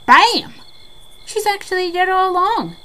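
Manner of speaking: excited. Real, not acted. Fan gushing to co-host about Psycho's twist, excited yell. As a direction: shout the twist with glee.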